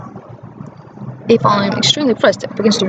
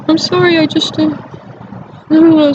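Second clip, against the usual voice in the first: mock tearful apology; 6 semitones higher than usual. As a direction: beg forgiveness theatrically. Mother's tearful apology imitated.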